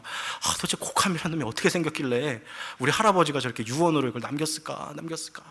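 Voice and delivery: hurried, fretful wondering, fading away; mock frightened muttering. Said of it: "이 겁에 질린 거죠". (겁먹고 불안해하는 척)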